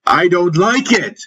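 very high-pitched, scornful outcry; contemptuous scream. A narrator's reading. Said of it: "I screamed in contempt".

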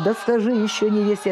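mild spoken show of despair; a touch of last-hope desperation. Shown as a demonstration. Singer explaining the song's final plea, mildly despairing. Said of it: "это отчаяние уже того".

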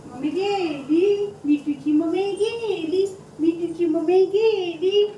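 drawn-out singsong to the parrot; slow singsong baby talk. Pretend. Mother tells parrot Mithu his mummy left, slow singsong. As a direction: stretch गेली slowly and lift it.

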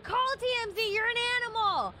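high-pitched, hammed-up retort; mock shouted comeback. Woman yelling back at the TMZ caller, mock shouted comeback.

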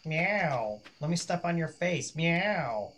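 playful high cat voice. Pretend. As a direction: speak as the pesky cat. Voicing the cat.

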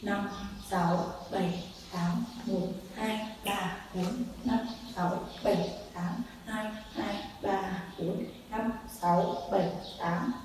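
quick rhythmic count; fast count. Shown as a demonstration. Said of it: "Nhanh lắm".

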